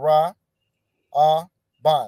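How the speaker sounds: Ra'aban split into Ra, A, Ban with long pauses. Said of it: "with those connectors".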